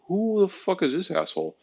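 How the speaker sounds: high, sneering partygoer voice; hammed-up high sneer; mocking sneer. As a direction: sneer at the guy in the wrong outfit. Mock partygoers sneering at misfit.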